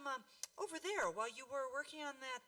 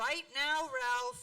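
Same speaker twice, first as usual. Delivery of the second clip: louder, firm mother's command; no more arguing, come down now; stern order; 5 semitones higher, 9 dB louder, much slower than usual. Acted.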